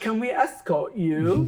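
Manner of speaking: put-on, imitated English accent. Retelling how palace guards on horses offered an escort, imitating guards' English accent. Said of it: "with their English accent".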